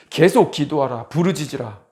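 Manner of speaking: low, subdued voice of God; imitated gentle command; calm divine voice. Imagines God approving continued prayer.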